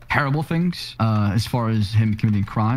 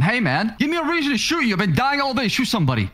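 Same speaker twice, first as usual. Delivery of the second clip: much higher mocking impression of Cletus; mocking imitation; 9 semitones higher than usual. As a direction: parrot his words back, mocking. Mimics colleague's taunt to suspect.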